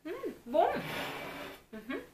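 humming while chewing. Real, not acted. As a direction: mouth full of food. Seen 1: Woman bit burger at -4; jaw and cheeks still chewing while humming.

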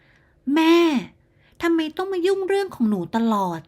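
snapping at mother. A narrator's reading. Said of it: "แก้มตะคอกใส่ป้าพา". (ตะคอกใส่แม่อย่างหงุดหงิด)

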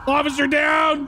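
shouting for help. Acted. Calling out after shooting.

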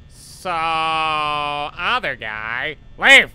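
slow build then loud shouted "leave!"; sudden command. Real, not acted. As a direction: shoo the robot off. Ordering animatronic away.

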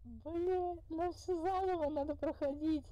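high, laughing through the words; half-laughing in disbelief; nervous laughing. Real, not acted.

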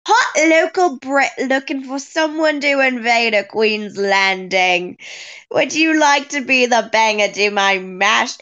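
reading a dating bio in a put-on British accent; hammed-up British accent, committing to the role. Reading the bio aloud for Derek, in a British accent. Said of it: "You have to do the accent".

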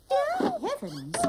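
high, drawn-out dismay; appalled exclamation. Acted. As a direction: exclaim slowly in theatrical horror. Aunt appalled at the wrong handbag.

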